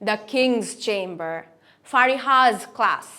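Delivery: slow, KING'S and FARIHAS ending in Z; final Z sound. Shown as a demonstration. Teacher gives examples, slowly voicing the Z in KING'S, FARIHAS. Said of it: "এসটাকে জেড এর মতন".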